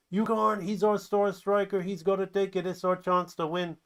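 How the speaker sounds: high voice easing down as it argues; pleading protest. Acted. Teammates arguing for their star striker, protesting. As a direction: argue high, then settle slightly.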